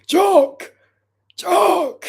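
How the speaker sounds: loud, high call across the room. Real, not acted. Streamer yelling for Jock across the house, loud high call. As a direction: shout his name to get his attention.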